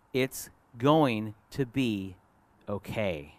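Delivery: slow down and settle gently on okay; gentle reassurance. Acted. God speaking comfort to listeners, gentle reassurance. God's reassurance voiced to congregation.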